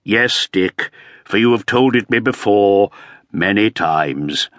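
tired of hearing it again; weary exasperation. Acted. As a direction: sigh out the last words slowly. Earl tired of repeated taunt.

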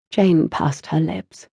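usual speaking voice

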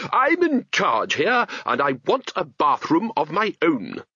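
high, slow and firm; bossy wizard insisting, slow; firmly. Acted. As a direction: lay down the law. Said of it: "said Ridcully firmly".

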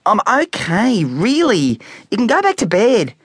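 put-on high pleading kid voice; pleading boy. A narrator's reading. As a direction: beg them to go back to bed. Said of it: "pleaded Specky".

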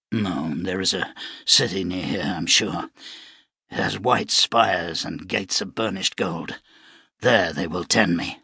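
a lightly voiced weary gunman; wounded gunman. Shano in fever.

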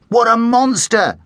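high, loud awe; amazed exclaim. A narrator's reading. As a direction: marvel at the size. Boy amazed by size.

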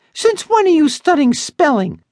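high, bratty little sister. Acted. Sister voiced in story.

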